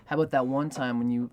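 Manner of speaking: a lover's cheeky counterattack; feisty comeback. Pretend. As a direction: fire back playfully, pretending to be offended. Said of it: "would love if that woman would be like".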